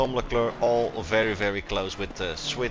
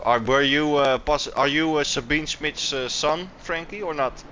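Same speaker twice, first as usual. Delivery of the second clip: raised, higher voice over rotor noise; yelling over helicopter; 5 semitones higher, 3 dB louder than usual. Real, not acted. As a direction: shout the question over the noise. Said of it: "sorry for the helicopter sounds".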